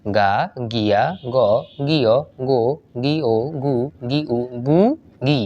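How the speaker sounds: syllable-by-syllable recitation, evenly spaced; reading drill. Shown as a demonstration. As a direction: read out the syllable chart in a steady rhythm. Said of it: "এখন যদি reading পড়ার চেষ্টা করি". (বানান পড়ার মতো ছন্দে ছন্দে পড়া)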